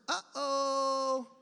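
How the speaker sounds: lekko przestraszone uh-oh, wyżej. Retold or imitated. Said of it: "I say these two words".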